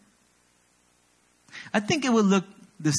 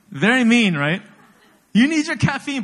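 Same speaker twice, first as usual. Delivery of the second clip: playful mock outrage; 6 semitones higher, 4 dB louder than usual. Real, not acted. Mock outrage at own prank.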